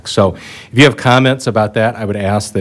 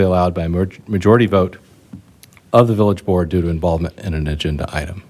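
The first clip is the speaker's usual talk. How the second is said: reading out the official rules, a bit quicker in places; formal rule reading. Shown as a demonstration. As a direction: recite the standard procedural spiel. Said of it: "I'm about to read my usual long spiel".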